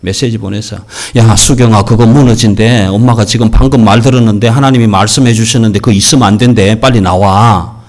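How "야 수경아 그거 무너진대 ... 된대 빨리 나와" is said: loud urgent call to get out; urgent warning. Acted. Mother urgently telling Sugyeong to get out, loud and pressing. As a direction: rush her out of the building, loud.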